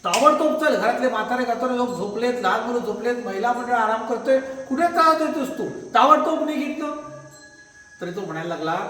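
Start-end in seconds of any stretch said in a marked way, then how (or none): 0.0-7.1 angry. Acted. Furious master orders beggar off his doorstep, angry scolding. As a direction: drive the beggar away in rising anger. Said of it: "शेठ एकदम रागावला, क्रुद्ध झाला".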